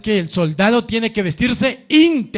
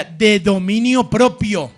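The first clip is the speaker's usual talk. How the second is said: slow, strong, spelled out for the church; measured loud declaration; loud slow repeat-after-me; 4 dB louder, slower than usual. Shown as a demonstration. Preacher gives the congregation a slow loud line to repeat.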